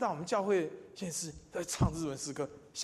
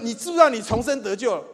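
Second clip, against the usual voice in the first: 你知不知道你重生得救了 fired out loud and high, falling at the end; pushy church brother; 7 semitones higher, 13 dB louder than usual. Retold or imitated. Church brother confronting everyone he meets, loud and high. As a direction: play the eager brother who confronts everyone. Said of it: "他碰到人就说".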